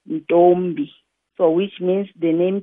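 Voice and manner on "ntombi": Ntombi in two deliberate syllables; syllable demonstration. Shown as a demonstration. Teacher has learners feel their chin move, Ntombi sounded out carefully. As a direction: pronounce Ntombi so the chin moves twice. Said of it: "then pronounce the name Ntombi".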